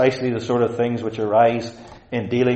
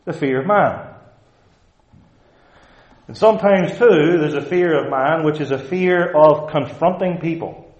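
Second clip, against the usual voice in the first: raised, insistent pulpit voice; higher-pitched, forceful sermon delivery; emphatic preaching; 6 semitones higher, 8 dB louder than usual. Acted. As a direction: warn the congregation with mounting urgency.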